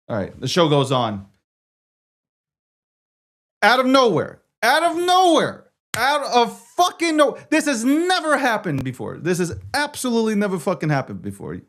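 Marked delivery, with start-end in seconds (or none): 3.6-11.6 far higher, hammed-up disbelief; mock dramatic outcry. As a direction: ham up the disaster like an announcer. Mock-dramatic rant about tech.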